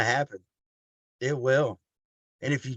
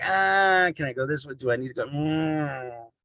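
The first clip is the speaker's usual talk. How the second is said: mock indecision; 3 semitones higher than usual. Speaker mimics someone cutting corners, mock indecision. Acting out someone unsure which way.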